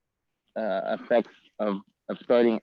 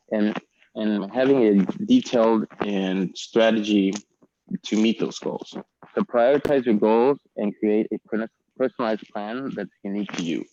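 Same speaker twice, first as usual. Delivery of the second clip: crackling audio cutting in and out; breaking-up connection on the voice; clipping distorted mic. Real, not acted. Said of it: "your audio is crackling".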